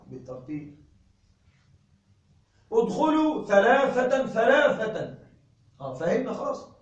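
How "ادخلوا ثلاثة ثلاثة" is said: slow, firm call; calling students in threes. Retold or imitated. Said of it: "فأقول". (المعلم يأمر بالدخول ثلاثة ثلاثة)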